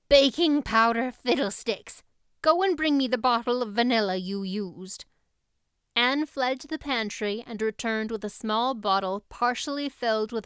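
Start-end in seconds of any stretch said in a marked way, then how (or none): 0.1-5.0 put-on loud, impatient older woman; brisk Marilla. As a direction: cut the excuse off, louder. Marilla dismisses the excuse.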